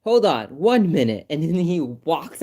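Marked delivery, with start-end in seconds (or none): 0.0-1.2 higher and louder, flustered doctor; mock flustered hold on; retold doctor's confusion. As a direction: play the doctor catching the mistake. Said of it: "he was like".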